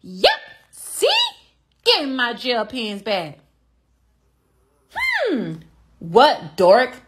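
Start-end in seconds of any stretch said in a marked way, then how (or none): 4.9-5.6 high-pitched angry "hmm"; a pointed, high, pouty hmm; mad huff. Acted. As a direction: huff to show you are mad. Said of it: "I'm mad".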